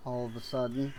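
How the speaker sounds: talking through a yawn; words stretched by a yawn. Real, not acted. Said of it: "yawning so much".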